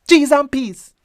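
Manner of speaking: high shocked cry of "Cheese and peas"; shocked exclaim. Shown as a demonstration. Teacher showing what you say at a shock, shocked. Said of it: "Pay attention to how it sound".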